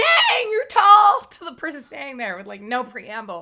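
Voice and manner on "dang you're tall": piercing, shrill scream, very high and very loud. Complaining about a character who opens her door to someone, imitating a scream. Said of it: "just screams".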